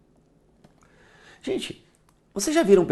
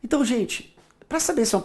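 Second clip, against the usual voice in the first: whisper; 6 semitones higher, 6 dB quieter than usual. Shown as a demonstration. Sudden whisper to class.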